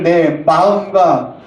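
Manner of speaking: very slow, weighty recitation; slow, solemn scripture reading; solemn scripture quote. Acted. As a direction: intone the Lord's command. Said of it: "우리 주님 말씀하시기를".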